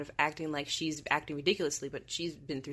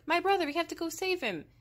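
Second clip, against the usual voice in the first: high-pitched imitation of pleading; mock panic; 11 semitones higher than usual. Barbara begging Ben to save her brother, mock panic. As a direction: act out a frantic woman, hammed-up. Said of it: "She's panicking".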